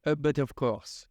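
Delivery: light mock French accent; playful French accent, lightly done. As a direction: toss off "but of course" in a hint of French. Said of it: "a French accent".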